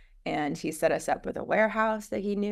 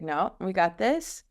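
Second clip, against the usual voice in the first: calm reassurance; 3 semitones higher than usual. Retold or imitated. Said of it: "I'm more the cool under pressure".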